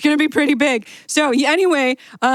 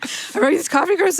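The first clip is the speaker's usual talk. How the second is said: shop clerk voice; 5 semitones higher than usual. Acted. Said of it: "doing both voices at once".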